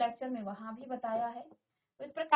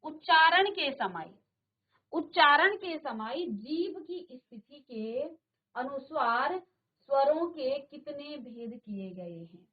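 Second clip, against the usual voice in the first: slow reading; 4 dB louder, slower than usual. Shown as a demonstration. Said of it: "प्रश्न number ग्यारह है".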